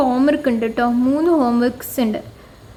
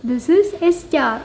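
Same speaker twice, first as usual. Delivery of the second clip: slow model sentence; 3 semitones higher, much slower than usual. Shown as a demonstration. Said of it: "ഹാദാ നജ്മുൻ".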